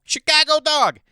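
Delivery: loud, high indignant yell; a hammed-up high yell of disgust; mock outraged shout. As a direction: blast the words in disbelief. Ranting about Chicago hot dogs.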